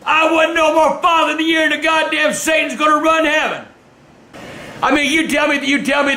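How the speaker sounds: angry shout. Real, not acted. Father ranting at the camera.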